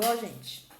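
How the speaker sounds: ordinary talk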